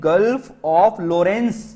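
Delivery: each word drawn out very slowly; stretched-out teacher dictation. Shown as a demonstration. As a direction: spell it out slowly for the class to write. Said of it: "तो इसको क्या कहेंगे?".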